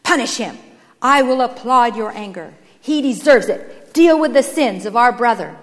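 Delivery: loud, theatrical fault-finding; declamatory, self-righteous accuser; shouted denunciation. A narrator's reading. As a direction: proclaim another's wrongs with relish. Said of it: "he shouted".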